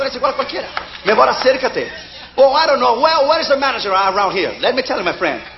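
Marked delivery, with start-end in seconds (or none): 2.4-5.4 lightly voiced demanding customer in English; mock-play a pushy diner calling for the manager; a hint of a bossy restaurant customer; tough customer voice. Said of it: "Gotta talk like this".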